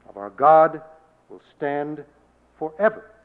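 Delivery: loud, ringing prophetic proclamation; crying out. Retold or imitated. Isaiah proclaiming that God's word stands, loud and ringing. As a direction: build it like a prophet's outcry. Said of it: "cried Isaiah".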